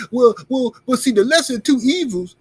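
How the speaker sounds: high, loud well well well; loud mocking scoff. Real, not acted. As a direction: scoff at the idea. Mocking the lesser-evil argument.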